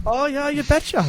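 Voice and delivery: a light Fargo Minnesota twang on you betcha; mild mock Minnesota accent. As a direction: toss off a jokey Minnesota accent. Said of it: "What accent are you trying to do there".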